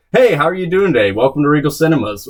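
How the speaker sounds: chirpy scripted cashier greeting; bright customer service pitch; upselling cashier. Retold or imitated. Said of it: "'cause I'm an actor, so I stick to my script".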